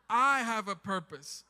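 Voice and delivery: loud, slow affirmation; emphatic, drawn-out statement of faith; with conviction. Shown as a demonstration. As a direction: declare it like you actually believe it. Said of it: "say it like you actually believe it".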